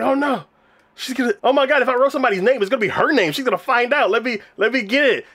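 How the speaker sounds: high, frantic imitation of panic; mock panic. Boy afraid she'll find her name, comic panic. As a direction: blurt it high, scrambling to hide a secret.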